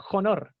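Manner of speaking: "honor" starting with a Spanish j sound. Shown as a demonstration. Teacher showing the wrong Spanish reading, "honor" with h sounded. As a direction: say "honor" as "jonor". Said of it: "yo no digo honor".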